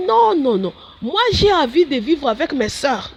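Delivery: put-on high pleading no, like a reluctant young nun; pleading refusal. Pleading with Jesus to stay with her sisters, high and begging.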